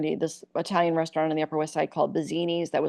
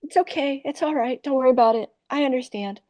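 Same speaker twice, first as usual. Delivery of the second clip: high, forgiving Iowa waitress; put-on Iowa accent; 7 semitones higher than usual. Waitress excusing people who left shitty tips, forgiving Iowa accent. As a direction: reassure them in a sweet Iowa voice. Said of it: "I'd turn on my Iowa".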